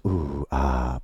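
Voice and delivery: low breathy mock moan; a brief, jokey moan; low half-hearted fake moan; mock sex noises. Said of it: "I might have showed up making sex noises".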